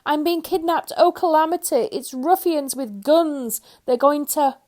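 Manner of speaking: high, loud frightened cries; panicked wail. A narrator's reading. Mister Jelly sure he is kidnapped, wailing high. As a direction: cry out in terror.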